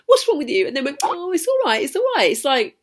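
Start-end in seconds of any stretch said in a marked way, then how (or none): 0.1-0.7 put-on higher, louder older-sister reproach; imitated reproach. Older sister snapping at crying child. 1.0-2.3 high, sing-song imitated soothing; mock placating. Sister placating the crying child.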